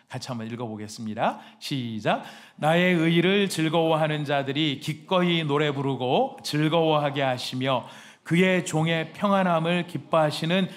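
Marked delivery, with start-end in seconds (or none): 2.6-10.7 slow, loud unison Bible reading; scripture reading. Real, not acted. Pastor leading the church in reading, slow and loud. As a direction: read it out together, slowly and loud.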